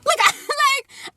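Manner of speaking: high strangled disbelief with a laugh; stunned teen hearing a slur about herself; shocked. Retold or imitated. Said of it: "the most shocked and disgusted look".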